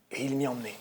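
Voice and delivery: ordinary talk, nothing marked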